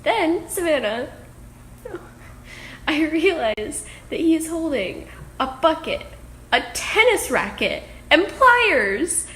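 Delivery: loud, high, disbelieving rush; bursting with shocked laughter; excited. Real, not acted. Shocked by pliers and racket.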